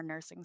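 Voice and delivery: "nursing" leaned on deliberately; stress on nursing. A narrator's reading. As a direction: lightly point up the word "nursing". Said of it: "I emphasize the word nursing deliberately".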